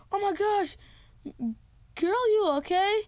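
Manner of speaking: high-pitched acted onlooker voice; retold cry of concern; mock concerned onlookers. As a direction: pitch up high as a fussing bystander. Voicing worried onlookers in story.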